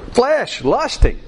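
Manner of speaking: normal talking voice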